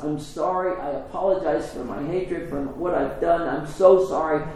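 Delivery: mildly acted tearful apology; a touch of imitated weeping. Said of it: "is crying and says".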